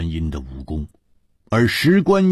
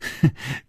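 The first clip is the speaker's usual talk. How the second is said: short, airy little laugh; light chuckle; 5 semitones higher, 5 dB quieter than usual. A narrator's reading. Su Rongrong teasing the old man, light brief chuckle. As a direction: chuckle briefly before speaking. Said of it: "笑着说".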